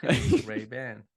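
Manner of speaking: Ray-Ban drawn out slowly with full "ban"; correcting pronunciation. Shown as a demonstration. Insisting the other way is wrong, correcting pronunciation. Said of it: "It's wrong".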